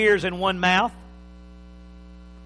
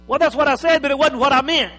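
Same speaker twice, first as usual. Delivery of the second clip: acted husband; 6 semitones higher, 9 dB louder, faster than usual. Acted husband replying in quarrel.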